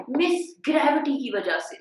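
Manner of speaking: a hint of a child's voice; pupil answering. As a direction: answer the teacher like an eager pupil. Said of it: "अक्सर बच्चे और बच्चियां कहते हैं".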